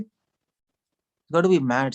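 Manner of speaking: each word stretched out slowly; slow, drawn-out diagnosis. Shown as a demonstration. Preacher to the audience, drawn-out slow verdict. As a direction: spell out the verdict slowly for emphasis. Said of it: "He's, he's got to be mad".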